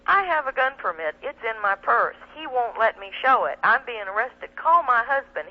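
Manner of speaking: calling out to passers-by as if hauled off in cuffs; retold yelling. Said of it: "yelling this at everybody".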